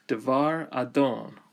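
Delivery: "Devar Adon" as one unit, accent on "-don". Shown as a demonstration. Teacher joins word with Lord, single accent. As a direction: run "Devar Adon" together, reducing the first vowel. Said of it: "it only has one accent".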